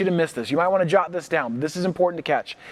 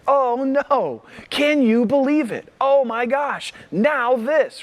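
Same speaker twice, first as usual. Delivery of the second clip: mock panic; 7 semitones higher, slower than usual.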